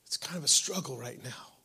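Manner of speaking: whispered, intimate retelling. Retold or imitated. Pastor recalling God's answer in the yard, whispered. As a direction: hush it as if confiding a secret. Retelling a private moment with God.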